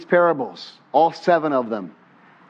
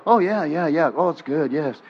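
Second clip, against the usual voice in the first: mock agreeable murmurs of assent; feigned understanding. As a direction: nod along as if you follow. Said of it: "don't just go".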